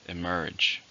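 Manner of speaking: Emerge, with the weight on "merge"; stress on the second syllable. Shown as a demonstration. Teacher modelling the word for learners, stress on "merge". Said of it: "Two, stress on the second".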